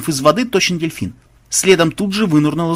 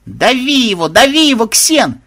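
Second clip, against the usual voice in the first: high, loud cheering; excited ringside whoop; delighted yelling; 9 semitones higher, 4 dB louder than usual. A narrator's reading. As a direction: egg the fighter on, thrilled. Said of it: "в восторге завопила Мелисса".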